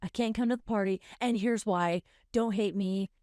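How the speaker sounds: a touch of anxious people-pleasing, building toward the end; pleading over-explanation. Acted. Softening a refusal to a party invitation, mildly pleading.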